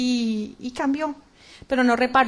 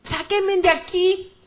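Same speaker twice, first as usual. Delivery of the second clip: higher, drawn-out acted plea; retold desperate cry; 4 semitones higher, 3 dB louder, slower than usual. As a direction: beg slowly to be pulled out. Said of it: "Empecé a gritar desesperada". (súplica desesperada y alargada, recreada)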